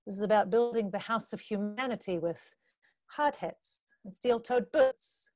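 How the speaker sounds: spoken-word poetry with measured pauses; deliberate performance-poet delivery; poem recitation. Acted. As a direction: recite it as a poem, phrase by phrase, letting line endings fall away. Recites own poem on stage.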